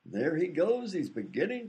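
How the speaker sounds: grand, drawn-out showman's introduction; stage announcer. Acted. Announcer presenting a high diver to the audience, grand showman. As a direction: announce the act with slow, theatrical build.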